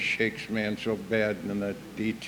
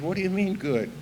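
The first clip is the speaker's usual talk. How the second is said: indignant wife; 8 semitones higher than usual. Retold or imitated.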